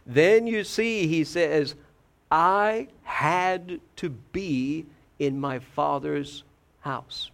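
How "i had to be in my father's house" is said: "had" drawn out with weight, the phrase slow; stress on "had". Retold or imitated. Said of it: "Emphasis on the word had".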